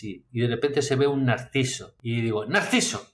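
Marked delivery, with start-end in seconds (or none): 2.5-3.1 a sudden high burst on the name; delighted discovery. Retold or imitated. Recalling the moment he finally remembers the word, a high excited burst. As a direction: pop the word out like finding it at last.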